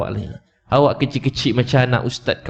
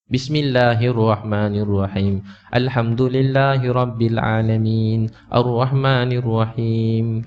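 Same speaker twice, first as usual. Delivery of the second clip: slow prayer recitation; 3 semitones lower, much slower than usual. Retold or imitated.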